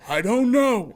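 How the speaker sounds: high, loud outburst; dramatic exclaimed despair; mock exasperated yell. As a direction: yell it in hammed-up helplessness. Hams up the retold helpless line.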